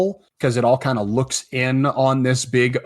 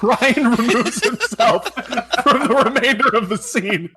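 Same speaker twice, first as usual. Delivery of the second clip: much higher, talking through laughter; helpless laughter breaking into the words; laughing; 11 semitones higher than usual. Real, not acted. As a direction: crack up while announcing it. Cracking up at player's exit.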